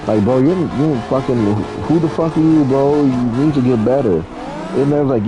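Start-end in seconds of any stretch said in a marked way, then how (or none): 0.2-4.2 black dad talk. Retold or imitated. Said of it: "it's like black dad talk".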